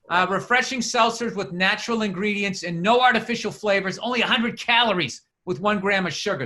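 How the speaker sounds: lightly announced product copy; mildly punchy podcast ad delivery; sponsor ad read. Acted. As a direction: read out the flavors like a casual pitchman.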